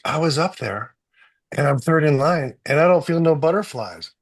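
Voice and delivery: playing the young athlete, a bit heightened; imitating the athlete. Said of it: "He goes".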